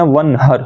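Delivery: "ونہر" with plain light h; wrong soft h. Shown as a demonstration. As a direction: breathe a simple h in "ونہر". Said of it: "ادھر پڑھ دیتے ہیں".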